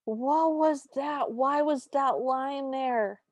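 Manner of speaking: high, drawn-out exasperated wail; appalled disbelief. Real, not acted. Podcaster reacting to the stepmother's awful line, appalled and incredulous. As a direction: stretch each word in baffled protest.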